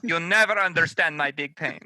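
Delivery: loud, high, tragic wail; dramatic martyr. Pretend. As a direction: moan it like a suffering diva. Mocking martyr line.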